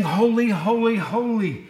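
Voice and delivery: a touch of awed chant; lightly voiced seraphim praise; angels' holy. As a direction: intone holy holy holy with reverence. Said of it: "And they're saying".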